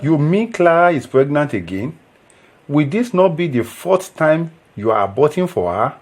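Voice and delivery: taken aback and disapproving; shocked disbelief. Acted. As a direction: react in dismay to troubling news. Friend shocked at pregnancy news.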